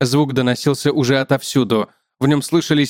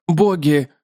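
spider's statement; 3 semitones higher than usual. Acted. Spider names gods, man echoes.

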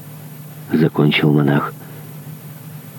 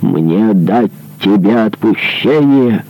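slow, bitter mocking repeat; mocking laugh; 4 semitones higher, slower than usual. Monk mocking the dying man's plea with a cruel laugh. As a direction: sneer it back with a cruel laugh. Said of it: "вскричал монах со смехом".

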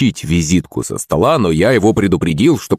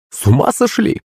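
high shocked cry; exclaiming; 11 semitones higher than usual. A narrator's reading. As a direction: she can't believe what she sees. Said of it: "воскликнула симпатичная женщина". (изумлённо и высоко)

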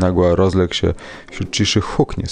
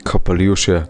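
ordinary delivery

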